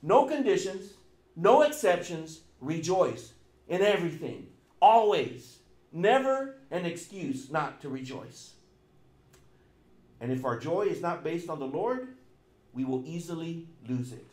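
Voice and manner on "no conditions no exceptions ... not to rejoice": loud, punched list; emphatic preaching. Real, not acted. Preacher pressing the point, loud and emphatic. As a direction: drive each phrase home. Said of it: "He's emphasizing this".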